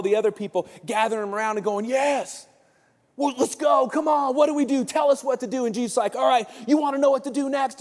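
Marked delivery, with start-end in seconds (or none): 1.9-5.7 high, eager crowd raring to go; rally like keen followers begging for orders; fired up. Acted. Disciples gathering round their risen leader, fired up. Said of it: "they're all fired up". 6.1-7.8 high-pitched, building anticipation; rousing. Acted. Jesus to his fired-up disciples, rousing.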